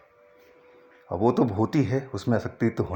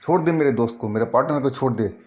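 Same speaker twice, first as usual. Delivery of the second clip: higher, moderately raised voice of an angry challenge; retold angry demand; 4 semitones higher, faster than usual. Narrator confronting the ghost strangling his friend, acted angry demand. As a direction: act out ordering an attacker off, pitched up. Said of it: "मैं बहुत गुस्से में आ चुका था".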